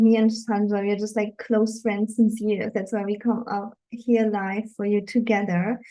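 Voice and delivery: ordinary talk, nothing marked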